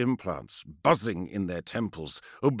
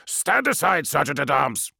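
loud, high firm order; insist, no argument; insistent; 5 semitones higher, 6 dB louder than usual. Acted. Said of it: "insisted Kratos".

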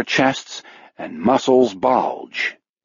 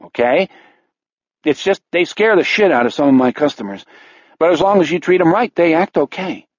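higher, anxious bartender voice; jittery barman, pitched up; nervous bartender; 5 semitones higher than usual. Acted.

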